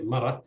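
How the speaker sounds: mara with the stress on its second syllable. Shown as a demonstration. Lecturer giving an example word, mara stressed on second syllable. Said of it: "stress falls on the second syllable".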